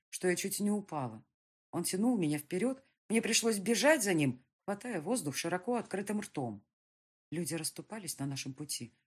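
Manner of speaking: plain reading voice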